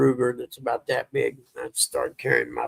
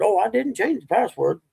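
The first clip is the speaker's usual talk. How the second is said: dad's voice; 8 semitones higher, 3 dB louder than usual. Retold or imitated. Dad voiced in story.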